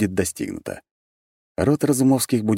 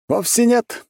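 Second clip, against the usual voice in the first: laughing; 4 dB louder, slower than usual. A narrator's reading. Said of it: "весело рассмеялся".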